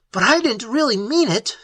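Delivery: high, choked denial; choked protest. Acted. Elliot denying his wish, high and choked. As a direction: plead through a tight throat. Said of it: "Elliot choked".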